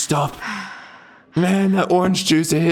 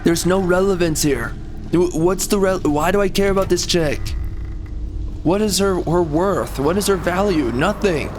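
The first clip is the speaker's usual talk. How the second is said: annoyed rant; 4 semitones higher than usual. Real, not acted. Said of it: "I'm getting angry".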